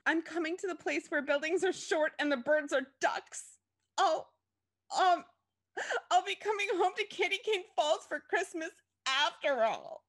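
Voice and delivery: high-pitched, hammed-up weepy wail; tearful. A narrator's reading. Chrissy tells mom she's coming home, tearful wail. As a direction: sob through it melodramatically. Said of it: "Chrissy said tearfully".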